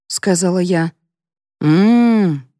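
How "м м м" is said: muttered hum. A narrator's reading. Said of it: "пробормотал Дегтярев".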